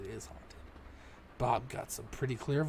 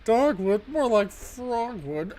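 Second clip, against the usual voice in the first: mocking jeer; 8 semitones higher, 12 dB louder, slower than usual. Mocking the ghost voice line.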